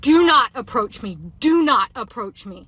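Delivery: loud, slow, emphatic warning; drawn-out loud command, acted out; retold yell. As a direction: re-enact yelling someone off, word by word. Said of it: "I literally yelled at him".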